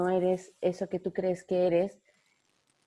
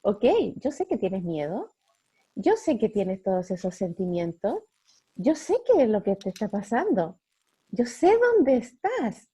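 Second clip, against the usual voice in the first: gentle voice, pitched up at the end; Holy Spirit speaking; 3 semitones higher, 4 dB louder than usual. Acted. The Holy Spirit gently telling a frightened listener, lightly voiced. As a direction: reassure her like a loving spirit. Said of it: "el Espíritu Santo nos dice".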